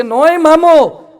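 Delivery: scoffing. Real, not acted. Mocking the moon-uncle myth.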